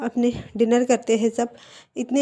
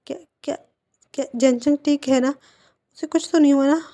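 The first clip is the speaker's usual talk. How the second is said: panicked questions; 3 semitones higher, faster than usual. Acted. Wing asks Lan Shijen about Zhencheng, panicked. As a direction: blurt it out in sudden worry. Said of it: "बहुत ज़्यादा घबरा जाता है".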